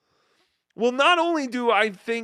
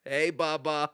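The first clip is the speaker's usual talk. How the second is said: Shuli imitating the Sheik; slower than usual. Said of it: "once Shuli started hanging out".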